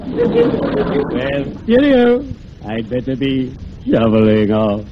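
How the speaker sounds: drawn-out ghostly goodbye; spooky farewell. Acted.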